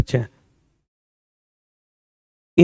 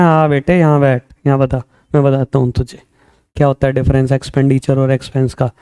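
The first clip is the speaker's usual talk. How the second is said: confident student; 3 semitones lower than usual. Retold or imitated. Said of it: "तुम कहना".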